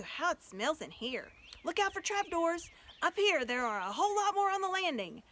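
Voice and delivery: high, loud shouts from many searchers; excited calls. Acted. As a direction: voice a busy crowd calling out. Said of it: "everyone's voices crying out at once".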